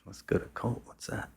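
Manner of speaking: puzzled echo. Retold or imitated. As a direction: repeat "Colt?" back in disbelief. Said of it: "I'm like".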